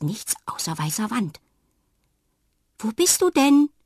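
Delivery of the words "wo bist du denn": loud, high call into the room. A narrator's reading. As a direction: call out searching. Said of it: "ruft sie". (laut rufend)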